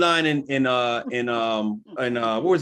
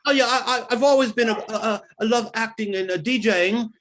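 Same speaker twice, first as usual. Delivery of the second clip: imitating British accent; 3 semitones higher than usual. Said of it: "imitating Idris on TV".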